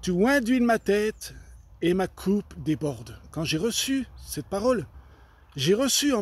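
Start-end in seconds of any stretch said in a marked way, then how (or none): 0.0-3.2 received verse. Retold or imitated. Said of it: "j'ai reçu, dans mon cœur".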